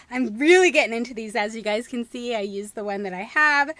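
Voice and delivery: ordinary talk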